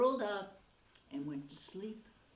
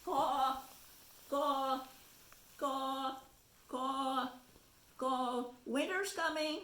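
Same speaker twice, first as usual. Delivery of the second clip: high, loud crow calls and warnings; urgent crow spreading the news; cawing crow; 5 semitones higher, 4 dB louder than usual. Acted. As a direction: caw and urge the birds south. Crow warning birds of winter.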